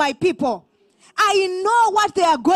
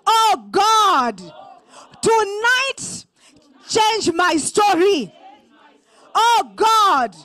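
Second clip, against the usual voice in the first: loud prayer cry. Shown as a demonstration. Preacher leads the congregation in a loud cry to God. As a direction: cry out to God, louder on each Oh God. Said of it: "I want you to declare".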